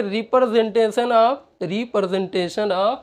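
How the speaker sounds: very slow, drawn-out syllables; slow dictation. Shown as a demonstration. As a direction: stretch each syllable for note-taking. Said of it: "dictating slowly".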